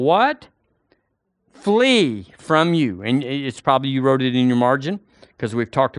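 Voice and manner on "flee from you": slow, every word stretched; dramatic drawn-out. Real, not acted. Preacher finishing the verse with the crowd, slow and stretched. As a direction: stretch "Flee from you" slowly for effect.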